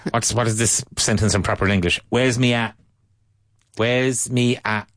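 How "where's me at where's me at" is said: Cockney. Shown as a demonstration. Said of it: "They're kind of like the Andaluces".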